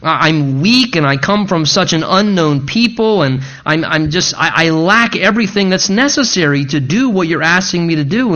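lightly acted protest, tripping over each "I"; a touch of flustered inadequacy; insecure Gideon. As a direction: stammer through a list of self-doubts. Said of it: "struggling with what? His own insufficiency".

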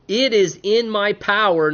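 slow, high-pitched threat, lightly acted; angry Laban. Father-in-law threatening Jacob, acted anger. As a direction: weigh out each word as a warning. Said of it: "Laban is angrily confronting".

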